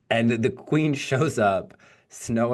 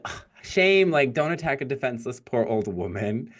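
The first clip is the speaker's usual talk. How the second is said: hammed-up old hag; 3 semitones higher than usual. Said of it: "she's like".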